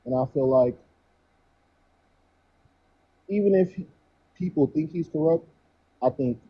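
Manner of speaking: muffled, like through a wall; muffled mic. Real, not acted. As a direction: voice dulled by a bad mic. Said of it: "it sounds like your mic is a little bit muffled".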